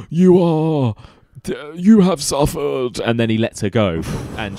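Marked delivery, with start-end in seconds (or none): 0.1-3.0 higher, louder dramatic line; dramatic quote. Retold or imitated. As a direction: deliver it like a grave revelation. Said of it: "he kinda goes".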